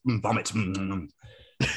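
munching bird. Acted. Acting the bird eating vomit again.

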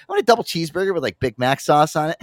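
lightly voiced giddy brother at the drive-thru; giddy brother ordering. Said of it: "this is what he ordered".

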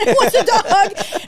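high, slow, drawn-out mock call; exaggerated naive enthusiasm, stretched out; hammed-up eager offer. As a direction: sing out the offer to all takers. Repeats her naive offer, exaggerated.

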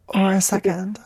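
breathy suggestive whisper. Real, not acted. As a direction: whisper it like a secret. Suggestive aside.

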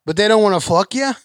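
Canadian attempt that sounds like Boston; a badly faked Canadian accent; hammed-up accent that keeps slipping; mock Canadian accent. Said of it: "You're in Boston right now".

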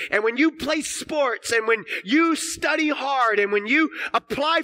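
loud, high, impassioned sermon delivery; full-force preaching. Real, not acted. Preacher to congregation on God's glory, full-force preaching. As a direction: drive each phrase home at full voice.

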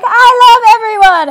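high, sweet puppy voice; high cheerful dog voice full of love; happy puppy voice. Retold or imitated. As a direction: voice the goofy friendly puppy, up high. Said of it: "Dewey's like".

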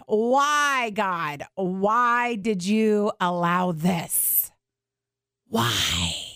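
anguished plea. Pretend. Voicing people's anguished question to God.

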